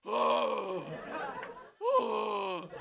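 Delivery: gruff Amrish Puri. Retold or imitated. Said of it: "his entire life he spoke like".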